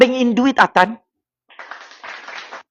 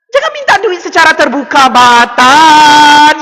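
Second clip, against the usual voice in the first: high, loud rebuke with a drawn-out name; exasperated scolding; 3 semitones higher, 6 dB louder, slower than usual. Real, not acted. Vlogger telling Atan not to beg openly, exasperated yell.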